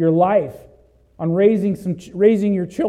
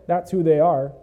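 ordinary delivery

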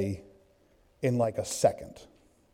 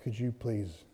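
softer, sheepish plea; mock timid plea; 3 semitones lower, 12 dB quieter than usual. Son asking dad to put pants on, soft and sheepish. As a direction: ask it meekly, embarrassed. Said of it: "He's like".

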